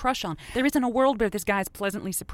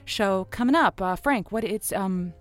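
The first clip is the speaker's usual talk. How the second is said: honeyed late-night host, then a promo read; radio sign-off and promo. Acted. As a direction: tease the next show like a radio ad. Host signs off, reads promo.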